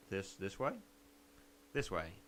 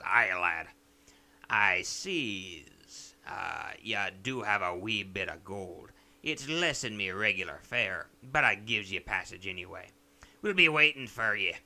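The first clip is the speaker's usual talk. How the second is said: pirate captain; 4 semitones lower, 3 dB louder than usual. Acted. Pirate captain voiced again.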